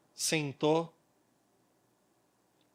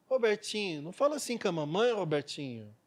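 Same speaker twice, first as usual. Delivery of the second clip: meek mother. Retold or imitated. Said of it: "aquela mãe passiva".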